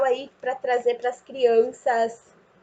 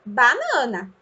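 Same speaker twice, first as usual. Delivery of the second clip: BANANA joined up, middle syllable raised; whole-word dictation; slower than usual. Shown as a demonstration. Teacher prompts child who forgot, BANANA whole. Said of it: "a gente fala só".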